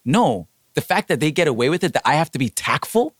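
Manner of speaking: retold indignation, pitch climbing; fired-up retelling of being mad; indignant retort. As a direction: push back in mild exasperation. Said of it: "that got me even more mad".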